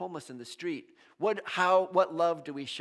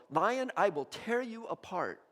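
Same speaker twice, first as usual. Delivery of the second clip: slow, higher-pitched warning; protective defiance; 4 semitones higher, slower than usual. Acted. Parent shielding a child from a lion, defiant warning. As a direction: face down a threat, drawing the words out. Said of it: "get in front of your child".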